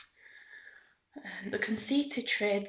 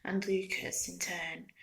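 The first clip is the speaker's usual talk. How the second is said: usual speaking voice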